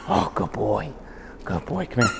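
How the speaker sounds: high, soft, airy praise for a dog; praising the dog. Real, not acted.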